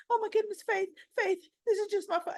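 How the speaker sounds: put-on high, weepy, wailing teen; mock crying. Imitating Lucy wailing over Faith, high and weepy. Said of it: "So she's like".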